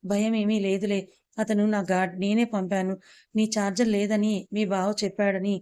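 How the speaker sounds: lightly stressed reassurance; emphatic reassurance. A narrator's reading. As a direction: press a little on each phrase to reassure. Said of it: "బాగా ఒత్తి పలికి".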